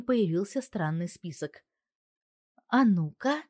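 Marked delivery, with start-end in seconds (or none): 2.7-3.4 higher, louder, sharp displeased grumble. A narrator's reading. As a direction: grumble at the suspicious list. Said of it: "ворчит недовольно". (недовольно ворча)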